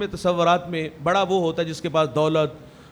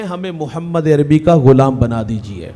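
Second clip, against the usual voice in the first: earnest plea; 3 semitones lower, 6 dB louder, slower than usual. Acted. Sweeper's family pleads to convert.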